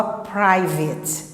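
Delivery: "private" com final em "i" curto, "PRAI-vit"; força no "pri", sem schwa no "vate"; exceção sem schwa. Shown as a demonstration. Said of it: "Ela não tem schwa". ("private" terminando em "vit")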